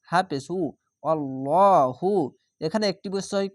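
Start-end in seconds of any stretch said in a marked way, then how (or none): 1.0-2.1 আল্লাহু drawn slowly with a full heavy l; recited heavy Allahu. Shown as a demonstration. Teacher models heavy lam for students, slow recitation. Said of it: "মোটা করে হয়ে যাবে".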